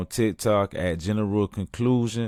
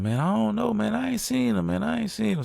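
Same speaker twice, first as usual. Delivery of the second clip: much higher, offhand answer; high mock reply; 14 semitones higher than usual. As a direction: tell him you haven't seen your friend, voice pitched way up. Friend answers in the club.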